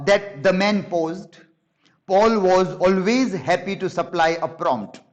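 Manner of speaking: slow, measured reading of the narrator's thoughts; slow book reading. Acted. Teacher reading Paul's thoughts to the class, slow and measured. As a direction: read it out slowly, line by line. Reads narrator's lines slowly.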